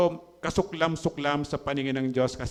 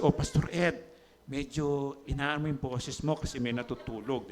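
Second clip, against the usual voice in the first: voicing God, much softer, hushed and kind; God's gentle hush; 2 semitones lower, 6 dB quieter than usual. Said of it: "sasabihin siguro ako ng Diyos". (mahinahong boses ng Diyos na pabulong)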